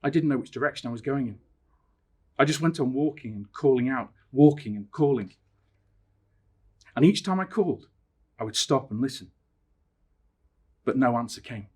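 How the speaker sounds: measured telling with suspenseful pauses; story narration. A narrator's reading. Teacher reading Danny's fruitless search, dramatic narration. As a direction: let each phrase hang before the next. Reads story aloud to viewers.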